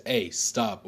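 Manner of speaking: lightly acted sharp command; mild mock teacher shout. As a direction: call out like a teacher halting a fight. Teacher breaks up a fight.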